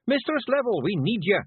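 loud, high Feegle shout in her ear. Acted. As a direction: call her back at full volume. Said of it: "shouted Rob Anybody into her ear".

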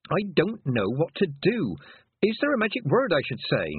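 high, anxious questioning; pleading girl. Acted. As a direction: beg for help as a lost girl. Lost girl pleads with toad.

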